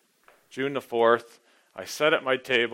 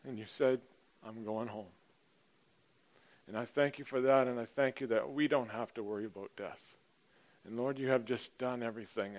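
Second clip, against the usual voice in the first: softer, reverent prayer voice trailing quieter; 5 dB quieter than usual. Acted. Pastor leading the congregation in an opening prayer, reverent and hushed. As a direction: pray it quietly and humbly.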